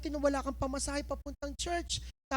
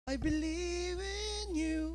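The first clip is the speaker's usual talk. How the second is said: higher, slow, rising praise; lifted worship; 4 semitones higher, 4 dB quieter, much slower than usual. Acted. The heart finally lifting in worship, higher and slow. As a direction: let the praise finally lift. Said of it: "Hanggang tumaas ng kamay ang puso".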